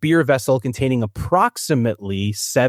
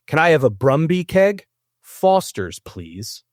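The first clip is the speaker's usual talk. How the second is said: raised, announced sample order without any accent; deliberately accentless; 5 semitones higher, slower than usual. Shown as a demonstration. Host reading a sample beer order to contestants, deliberately accentless. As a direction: read the order out in your own accent. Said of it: "with approximately zero accents".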